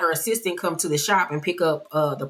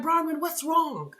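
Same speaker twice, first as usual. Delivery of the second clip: hushed, higher, gently concerned; soft concern; 8 semitones higher, 6 dB quieter than usual. Retold or imitated. Meredith turning softly to upset Bronwyn, hushed concern. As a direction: ask softly like you care.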